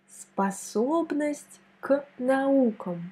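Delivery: slow, careful model phrase for learners; slow teaching read. Shown as a demonstration. Teacher modelling a phrase for a French learner, slow and clear. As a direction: say it slowly and clearly. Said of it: "On met l'accent ici".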